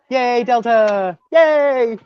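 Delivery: mock cheer, slow and high; sarcastic cheer. Real, not acted. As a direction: overdo the cheer to mean the opposite. Sarcastic thanks after travel nightmare.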